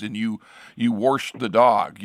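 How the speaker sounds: "washed" said as "warsht", with an r before the sh; folksy Ohio "warsht"; old "warsh". Retold or imitated. Recalling childhood speech, "washed" said "warsht". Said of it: "I actively worked to stop saying".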